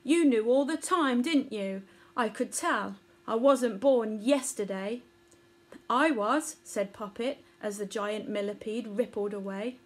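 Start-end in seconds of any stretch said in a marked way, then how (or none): 0.0-5.0 huffy. Acted. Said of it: "said the millipede huffily". 5.9-6.6 put-on young Poppet voice. Poppet's innocent reply.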